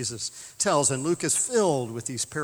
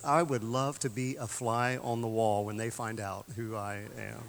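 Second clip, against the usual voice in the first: amused aside; 3 semitones lower, 5 dB quieter than usual. Retold or imitated. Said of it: "the Queen said to Richard".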